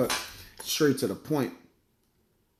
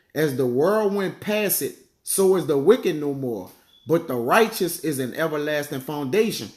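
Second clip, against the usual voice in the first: scripture reading; 2 semitones lower than usual. Acted. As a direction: read the verse with weight. Reads scripture aloud.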